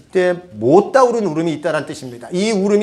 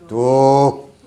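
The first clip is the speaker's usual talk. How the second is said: stern parent's order; 2 semitones lower, 4 dB louder, much slower than usual. Retold or imitated. Parent stopping child's crying.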